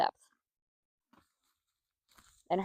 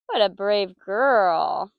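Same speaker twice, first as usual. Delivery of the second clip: slow praise; 5 dB louder, much slower than usual. Real, not acted. Praising horse slowly.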